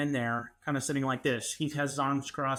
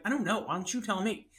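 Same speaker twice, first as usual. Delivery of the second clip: higher, exasperated retort; frustrated; 5 semitones higher, faster than usual. Retold or imitated. Pressed by roommate, frustrated retort. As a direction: throw the question back, irritated. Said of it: "I started getting frustrated".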